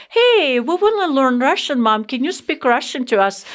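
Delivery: mock-excited sons begging their mom; kids' eager request. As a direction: imitate the boys suddenly keen. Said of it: "they're like".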